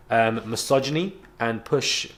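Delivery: stuttering on the word; catching on a stammer. Real, not acted. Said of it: "sorry guys, I have a stutter".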